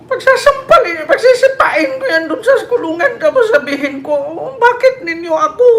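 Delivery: a host mimicking Digong's jail boast, laughing through it; Digong impression. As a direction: ham up the strongman's threats. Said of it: "Gaya ko nga boses".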